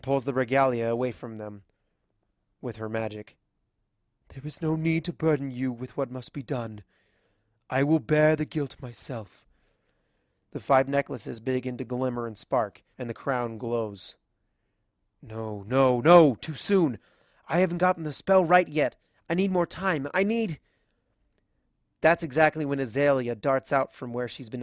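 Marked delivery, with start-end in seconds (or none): 4.3-9.5 a hint of a solemn queen shouldering guilt; Celestia's resolve. Celestia to the friends, gently resolute. Celestia taking burden alone. 15.2-20.6 rising, louder, frantic pleading; growing alarm as the spell slips away; panicked protest. Acted. Caster pleading for more time, rising panic.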